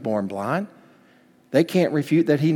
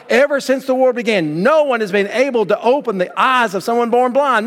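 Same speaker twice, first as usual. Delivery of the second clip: preaching; 9 semitones higher, 3 dB louder than usual. Retold or imitated. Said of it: "repeat to them what they've taught".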